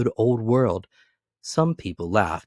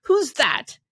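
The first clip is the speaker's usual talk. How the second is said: startled call; 7 dB louder than usual. Acted. Fred startled at door.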